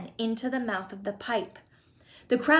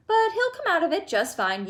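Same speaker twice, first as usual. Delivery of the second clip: lightly lilting, higher-pitched reassurance; reassuring; 7 semitones higher than usual. A narrator's reading. Chocolate maker reassuring mother about son, breezily reassuring. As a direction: brush worry away lightly.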